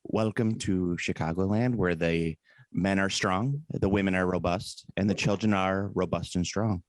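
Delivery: lightly voiced folksy radio narrator; Garrison Keillor. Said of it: "that's the Garrison Keillor right there".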